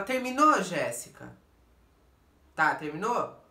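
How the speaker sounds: retold confrontational question; impatient challenge. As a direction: cut her off, fed up.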